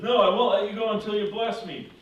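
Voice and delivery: loud, high, stubborn retort; defiant refusal. Retold or imitated. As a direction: refuse forcefully, mid-struggle. Jacob refuses to release angel.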